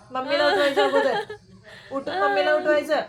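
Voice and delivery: chuckling while teasing; laughing. Real, not acted. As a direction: laugh through the words.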